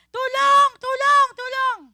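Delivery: high, loud cry for help; screaming for help. Retold or imitated. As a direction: shriek it out like a panicked woman. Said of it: "Sumigaw siya". (sumisigaw ng saklolo)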